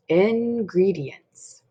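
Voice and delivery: very slow, savored word; drawn-out announcement. Acted. Mister Nuggy arrives with soup supplies, drawn out. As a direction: stretch out each syllable.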